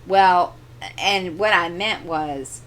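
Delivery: ordinary delivery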